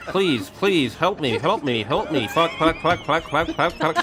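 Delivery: slow, even text-to-speech robot voice; Stephen Hawking impression. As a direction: read it like a flat speech synthesizer. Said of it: "my Stephen Hawking impression".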